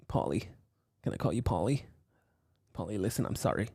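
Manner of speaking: lightly voiced slick businessman apologizing; soft-spoken businessman calming a scared colleague; Alex the businessman voice. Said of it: "This is Alex the businessman talking again".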